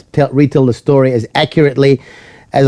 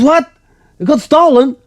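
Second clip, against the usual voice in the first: high-pitched, incredulous imitation of the boss; shocked disbelief; 13 semitones higher than usual. Boss hears the taxi was stolen, shocked disbelief. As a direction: act out a stunned double-take.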